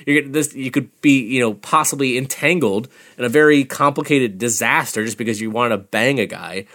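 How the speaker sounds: a hint of a jealous friend nagging her; imitating Lee. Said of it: "conversation with her of like".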